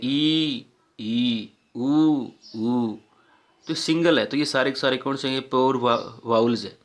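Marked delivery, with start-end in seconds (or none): 0.0-3.0 ई and ऊ each said as one steady sound; short then long ई and ऊ; vowel demo. Shown as a demonstration. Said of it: "एक ही sound निकालते हैं". (ई और ऊ को एक ही ध्वनि में बोलना)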